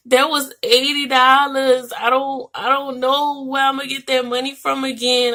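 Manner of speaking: reliving the panic with a lifted voice; retold bawling. To the test lady, retelling her tearful protest, mildly upset. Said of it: "Like, I was just bawling".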